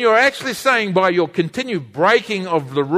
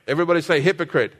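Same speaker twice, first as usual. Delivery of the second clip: quick cue; much faster than usual. Shown as a demonstration. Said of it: "Say it with some attitude".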